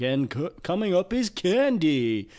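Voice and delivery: lightly voiced club DJ announcing; auctioneer voice. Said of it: "almost this auctioneer type voice".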